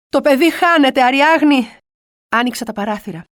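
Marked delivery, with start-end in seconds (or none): 0.1-1.8 louder, higher alarmed cry; panicked cry. Retold or imitated. Mother panicking over dying child.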